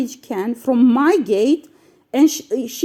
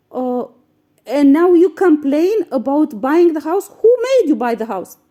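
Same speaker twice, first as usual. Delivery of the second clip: indignant retort; 3 semitones higher than usual. Retold or imitated. Imagined retort to the yelling neighbour, hammed-up indignation. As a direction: fire back at her, outraged but imagined. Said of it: "I didn't say all this, but I was asking myself".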